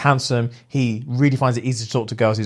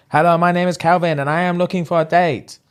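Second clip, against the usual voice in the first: mock Chinese accent; 6 semitones higher than usual. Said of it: "really strong Chinese accent".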